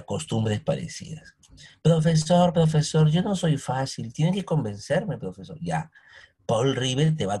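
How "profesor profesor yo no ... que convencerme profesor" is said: cheeky student. Retold or imitated. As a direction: play a stubborn pupil begging the teacher to convince him. Teacher voices a doubting student.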